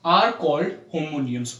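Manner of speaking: very slow, word by word; slow dictation. Shown as a demonstration. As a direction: spell it out at copying speed. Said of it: "teacher dictating a definition". (बहुत धीरे लिखवाना)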